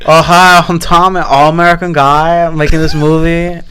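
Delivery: thick Eastern European accent impression; Tommy Wiseau. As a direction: do a drawling oddball foreign filmmaker. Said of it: "he talks, and he goes like this".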